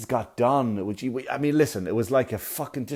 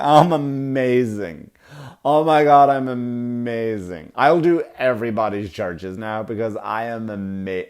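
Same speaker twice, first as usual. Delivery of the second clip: smug self-praise. Retold or imitated. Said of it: "came out and went".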